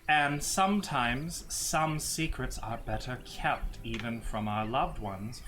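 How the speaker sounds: put-on measured, grave old cleric; solemn priestess voice. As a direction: speak like a dignified holy woman handing over relics. GM as Ilya defends her secrets.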